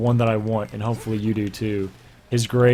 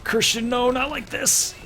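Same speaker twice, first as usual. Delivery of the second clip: much higher, squealing falsetto plea; mock squeaky protest; 3 dB quieter than usual. Reader mocking the heroine's line, squeaky falsetto. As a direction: ham up the breathless heroine.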